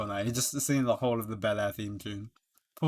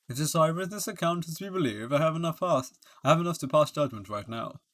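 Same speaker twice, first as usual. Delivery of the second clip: slightly raised judge's pronouncement; lightly voiced judge. Judge announcing he can pass judgment, lightly declamatory. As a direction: lightly play a judge ready to rule.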